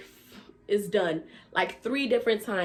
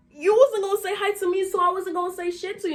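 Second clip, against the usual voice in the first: sassy comeback; 9 semitones higher, 4 dB louder than usual. Retold or imitated. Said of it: "I said".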